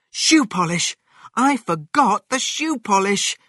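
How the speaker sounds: high, loud burst of remembering; excited realisation. A narrator's reading. George remembering the missing ingredient, excited outburst. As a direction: exclaim it as it dawns on you.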